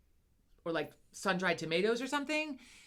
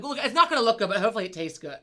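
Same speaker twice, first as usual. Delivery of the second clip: retold loud remark; 7 dB louder, faster than usual. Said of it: "I'm like".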